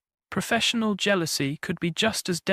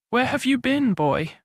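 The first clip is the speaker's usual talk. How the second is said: sharp and impatient, rising; impatient demand; 6 semitones higher than usual. Acted. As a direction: demand an answer from the boy. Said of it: "Slack demanded".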